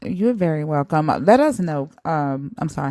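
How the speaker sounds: talking with a mouthful of food; words around a bite of food; mouth full. Real, not acted. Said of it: "I have food in my mouth".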